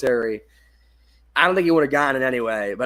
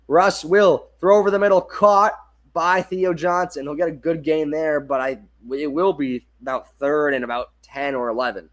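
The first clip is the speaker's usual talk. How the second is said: energetic broadcast call peaking on the catch, louder; play-by-play call; 3 dB louder than usual. Acted. Calling the completion to Theo Johnson, excited play-by-play. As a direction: sell the catch over the middle.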